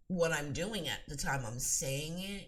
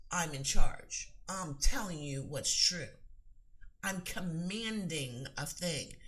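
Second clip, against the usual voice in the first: commanding; 5 dB louder than usual. Shown as a demonstration. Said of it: "you have to be more king and queen-like".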